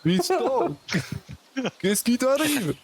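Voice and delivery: put-on high, strong accent of the North; worried mother with a strong northern accent. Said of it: "cet accent très fort des terres du Nord".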